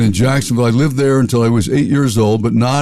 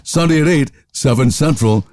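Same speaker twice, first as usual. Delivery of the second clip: announcer voice; 2 semitones higher than usual. Retold or imitated.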